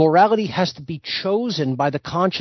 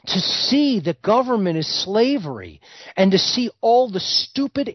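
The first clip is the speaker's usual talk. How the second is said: ordinary delivery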